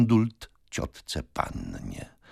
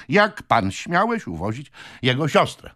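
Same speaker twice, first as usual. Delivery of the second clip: echoed question; 7 semitones higher than usual. A narrator's reading. Lawyer rephrases the client's angry question.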